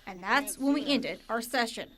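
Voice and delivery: measured TV reporter voice-over; scripted reporter read; news report narration. A narrator's reading. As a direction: narrate it as a local news package.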